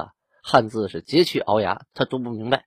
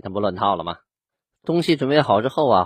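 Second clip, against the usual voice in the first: usual speaking voice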